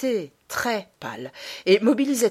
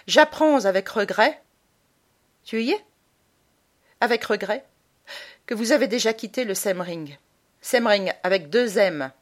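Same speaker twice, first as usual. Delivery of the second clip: lightly voiced mother dictating, higher; 3 semitones higher, 4 dB louder than usual. Mother dictating apology letter to son, measured. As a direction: spell it out like a dictation.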